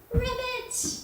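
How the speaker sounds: "ribbit" squeaked very high and loud; a big happy frog jump; very high excited frog croak. Pretend. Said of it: "play with the frogs".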